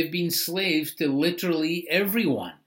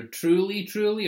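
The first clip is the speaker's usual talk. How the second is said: truly truly lifted higher each time; emphatic truly truly; 5 semitones higher than usual. Shown as a demonstration. Pastor demonstrating emphasis, truly truly lifted high. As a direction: say truly, truly as if in all caps. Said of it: "That's, like, being emphasized".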